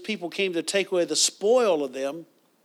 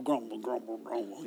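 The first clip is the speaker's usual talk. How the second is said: mock grumbling; 8 semitones lower, 11 dB quieter than usual. Mimicking Yosemite Sam grumbling.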